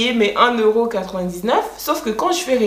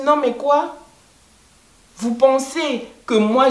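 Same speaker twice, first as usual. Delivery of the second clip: indignant retort; 5 semitones higher than usual. Retold or imitated. Retelling her comeback to the rude agent, indignant and higher.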